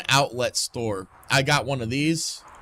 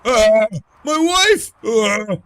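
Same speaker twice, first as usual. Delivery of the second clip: higher, loud panicked cries; frantic, shouting for family; panicked character; 10 semitones higher, 11 dB louder, slower than usual. Acted. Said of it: "Getting into character".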